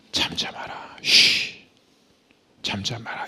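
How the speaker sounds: whispered, soft be-still; Jesus hushing the crowd in a whisper; hushed command. Acted. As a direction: whisper them into silence.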